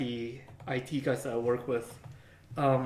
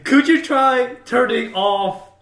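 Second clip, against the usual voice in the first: mock condescending; 5 semitones higher, 9 dB louder, slower than usual. Mocking the obvious IT advice.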